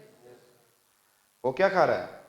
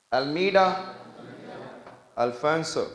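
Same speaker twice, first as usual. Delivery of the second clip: Almeida pitched up, Alfonso after a long pause; repeat-after-me; 2 semitones higher, much slower than usual. Shown as a demonstration. Teacher prompting the class to recall names, Almeida and Alfonso chanted separately. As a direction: drill Almeida, then Alfonso, one name at a time. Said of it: "मैंने क्या बोला".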